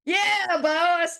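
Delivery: high-pitched hyped Albert impression; imitating Albert. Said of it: "you hear Albert go".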